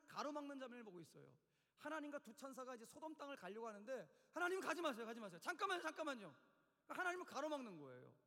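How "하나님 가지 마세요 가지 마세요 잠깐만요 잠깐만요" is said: loud, acted plea to stop; urgent pleading. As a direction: call out to block someone's way. Acts Abraham blocking God's way. (다급하게 붙잡는 목소리)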